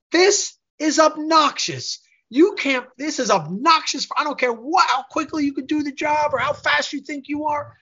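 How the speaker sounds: high-pitched mock tirade; worked-up retold outburst, pitched high; retold angry rant. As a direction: imitate an irate client telling someone off. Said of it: "he screamed at me".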